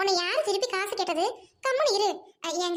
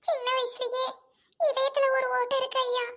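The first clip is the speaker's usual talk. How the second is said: crying appeal, pitched up; tearful plea; 3 semitones higher than usual. Acted. Mother begging employers for daughter's surgery money, tearful plea. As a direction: beg for help through tears. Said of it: "Nalini, என்னம்மா அழுகாத".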